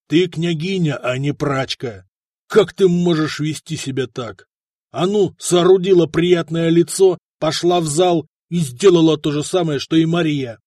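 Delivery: loud, furious husband's rebuke; angry scolding. Acted. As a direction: berate her loudly. Prince scolding his wife.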